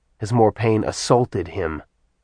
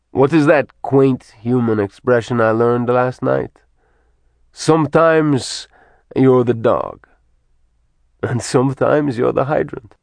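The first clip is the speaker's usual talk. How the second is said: taunting villain Kesar; 3 semitones higher than usual. Acted. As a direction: toy with a helpless captive. Villain Kesar taunts his captive.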